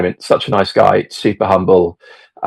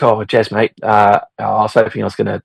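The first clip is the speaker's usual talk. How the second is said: put-on light Australian accent, rushed at the end; a hint of an Aussie twang, tossed off fast; Ange's Australian accent. Imitating Ange greeting Jez at breakfast, light Australian accent. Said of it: "I'm doing the accent again".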